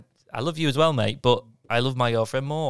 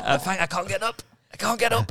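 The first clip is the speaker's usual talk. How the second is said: laughing, higher and strained; 8 semitones higher than usual. Real, not acted. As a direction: laugh while trying to stand. Struggling up from a lunge, laughing.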